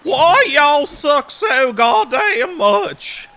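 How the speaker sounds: slow, high, loud exasperated yell; yelling at team. Retold or imitated. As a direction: holler at the useless team. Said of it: "Me yelling at my team".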